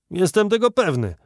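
insistent and sure; firm declaration. A narrator's reading. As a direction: declare it with full certainty. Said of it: "oświadczył kapitan".

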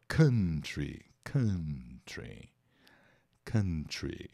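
country said as KAH-tree; country with an open first vowel, falling; teacher drilling country for students; model pronunciation. Shown as a demonstration. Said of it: "Repitam comigo".

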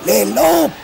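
high, loud cry of alarm; anguished gasp. A narrator's reading. Killy sees the lamps about to die, anguished cry. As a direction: gasp it out, scared to death. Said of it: "souffla Killy, mort d'angoisse".

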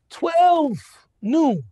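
TWELVE high and loud, then noon; stressed time. Retold or imitated. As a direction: hit Twelve hard and high, land on noon. Hours pass, nobody there.

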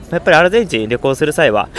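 hiccups breaking the phrase; hiccuping mid-sentence. Real, not acted. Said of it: "ごめんなさい、しゃっくりが止まんない。".

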